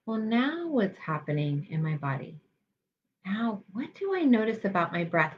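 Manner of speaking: softly inquisitive inner voice; mild curiosity. Shown as a demonstration. Meditation guide models replacing judgment with curiosity, gently inquisitive. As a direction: ask yourself with gentle, open interest. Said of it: "we replace that with curiosity".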